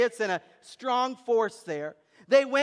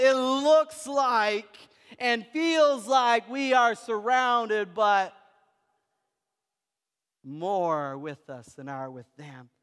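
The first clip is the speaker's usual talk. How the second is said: impassioned reassurance; slower than usual. Retold or imitated. Elisha assuring his frightened servant, impassioned then hushed.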